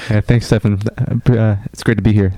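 underwhelmed radio voice; deliberately chill and unexcited reply. Real, not acted. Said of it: "You sound underwhelmed compared to the intro".

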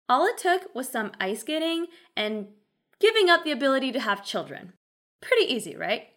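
mock-breezy sarcasm, lilting; sarcastic. Real, not acted. Recapper making light of a concubine's costly comeback, sarcastic. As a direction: toss it off as if it were easy. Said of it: "I'm being quite sarcastic".

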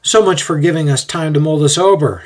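lightly acted wry retort; mild retort. A narrator's reading. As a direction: toss back a retort to your son. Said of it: "his dad retorts".

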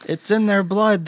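a hint of an angry townsperson; mock villager. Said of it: "town hall meeting where they're like".

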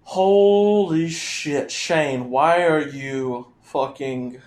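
slow stunned holy shit; can't believe the price; outraged disbelief. Real, not acted.

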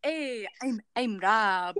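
hammed-up Canadian accent. Actor retrying Rob's introduction, in a mock Canadian accent. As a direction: try on a Canadian accent for Rob. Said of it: "Mm, Canadian".

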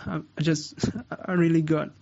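high, halting hammed-up sad voice; mock sad. Shown as a demonstration. Showing students how sad sounds, mock sadness. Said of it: "how about you get sad?".

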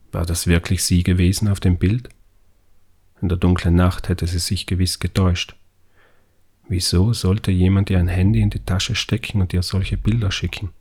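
plain reading voice

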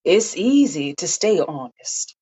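remembered grandmother, gently slow; grandmother's voice. Acted. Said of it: "She could hear her grandmother in her head".

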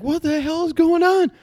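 high, panicked outburst; a guy panicking as the monster arrives, high alarmed cry; alarmed shout. Retold or imitated. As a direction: yelp it in total confusion. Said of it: "the guy's like".

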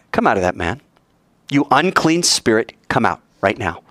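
firm command at normal volume; steady, unyielding rebuke; firm, no wimp. Acted. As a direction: order it out without shouting, but mean it. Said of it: "he didn't sound like a wimp".

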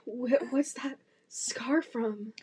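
slow, hushed dramatic Grace line; playing Grace. Grace asking Jackson about his scar, slow and dramatic. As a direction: ask it like a swooning heroine. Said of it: "I'll be Grace".

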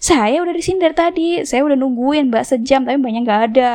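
mock stubborn arguing, starting high and easing down; retold stubborn insistence. Customer insists to driver she waited an hour, retold stubbornness. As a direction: dig in as if retelling your side. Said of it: "ngeyel dong".

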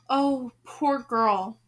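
slow muttered pity. Acted. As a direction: mutter it sadly and slowly. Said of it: "muttered as she came nearer".

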